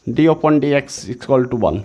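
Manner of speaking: very slow, word by word, like dictating a formula; slow dictation. Shown as a demonstration. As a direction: spell the formula out slowly for students to copy. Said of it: "तो आप ऐसे इसका फॉर्मूला याद रखोगे". (फ़ॉर्मूला याद कराते हुए बहुत धीरे, एक-एक शब्द बोलकर)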